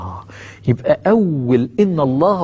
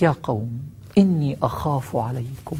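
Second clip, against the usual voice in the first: tender plea; 3 semitones lower, 6 dB quieter than usual. Acted. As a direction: plead gently out of fear for them. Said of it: "حوار عاطفي".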